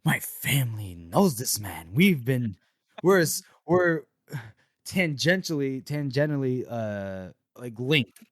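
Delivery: mock-indignant character voice. Pompous man disowning an accused acquaintance, mildly indignant. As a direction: put on some affronted self-importance. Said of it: "like, indignant".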